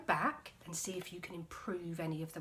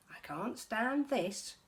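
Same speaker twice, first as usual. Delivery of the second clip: exasperated; 5 semitones higher, 4 dB louder, slower than usual. Acted. Mister Bear fed up.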